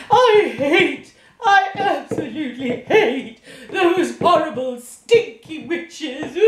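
giggling distaste; amused disgust; laughing disgust. Acted. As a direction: laugh while you spit out the insult. Teapot laughs hating witches.

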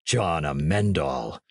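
low, slow "John Amendal" muttered darkly; brooding repeat. Acted. Hatch repeats the name.

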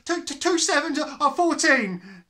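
high, stammering, terrified gasp. Acted. Frightened boy gasping the answer. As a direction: blurt it out in panic. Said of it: "gasped Rupert".

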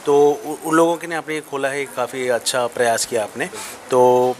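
muffled behind cloth mask; speaking with mouth covered; through a face mask. Real, not acted. Seen 0: Left man, apparently asking questions, wears red mask over mouth throughout.

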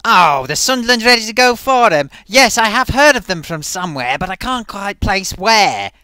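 loud put-on puppet voice; a hammed-up puppet mulling it over. Puppet answers Gloaty about the forum, loud put-on voice.

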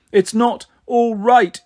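high, drawn-out acted sobbing; gasping between sobs. A narrator's reading. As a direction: voice a little girl struggling to speak through sobs. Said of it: "she gasped between sobs".

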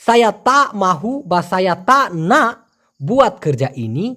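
"সায়া তা মাহু বা সায়া তা না বুয়াত কর যাইনি" in a Malaysian accent; Malaysian উচ্চারণে. Shown as a demonstration. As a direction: say it just like a Malaysian would. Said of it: "মালয়েশিয়ানদের মতো একদম হুবহু বলি".

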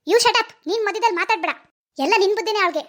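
cutting someone off crossly; angry rebuke. Acted. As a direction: silence him with an irritated put-down. Mother snaps at husband. (ಸಿಟ್ಟಿನಿಂದ ಬಾಯಿ ಮುಚ್ಚಿಸುವ ಧ್ವನಿ)

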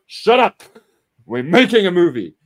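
loud, high snap; angry boss. Retold or imitated. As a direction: shut him down. Boss snaps.

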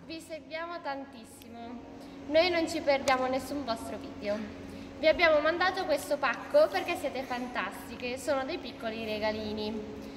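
lisping through a retainer; slurred S from braces; wearing a retainer. Real, not acted. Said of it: "Non ho la S molto bella".

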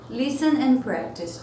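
slow, careful "Listen and practice"; slow model read. Shown as a demonstration. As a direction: drill it slowly. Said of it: "teacher repeats instruction slowly".

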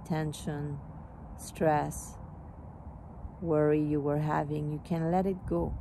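calm, even meditation guide with spaced phrases; guided meditation. Real, not acted. Teacher helping listeners release stress, calm meditation voice. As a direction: ease them into letting go, unhurried.

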